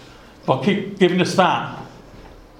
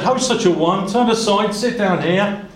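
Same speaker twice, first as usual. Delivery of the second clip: higher-pitched hail to a passer-by; mild calling out; 4 semitones higher than usual. Acted. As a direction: lightly voice a man calling someone over. Boaz calls passing kinsman over.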